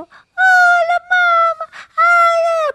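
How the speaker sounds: very high, loud squealing greeting; shrill gushing. Shown as a demonstration. Showing how not to greet the dog, loud high squealing. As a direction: squeal it like an overexcited owner. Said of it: "no sé qué, no".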